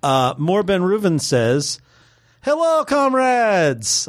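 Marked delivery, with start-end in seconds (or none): 2.4-4.1 put-on slow, high, drawn-out Russian-accent greeting. Host reading a listener's greeting in a mock Russian accent. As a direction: greet them like a Soviet officer. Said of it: "said it with that accent".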